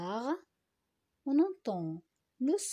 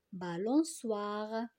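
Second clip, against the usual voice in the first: slow, whole word; slower than usual. Shown as a demonstration. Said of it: "dans la troisième syllabe".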